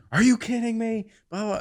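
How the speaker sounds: high, loud put-on voice of the wife; mock outraged wife. Husband mimicking his wife's outrage. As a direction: squeak it like she's fed up. Wife quoted complaining about wings.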